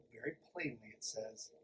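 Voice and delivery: usual speaking voice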